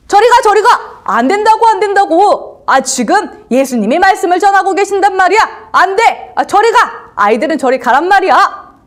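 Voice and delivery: high, loud, impatient telling-off; scolding the children. Acted. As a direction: shoo the kids away crossly. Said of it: "이렇게 아이들을 혼을 냈어요".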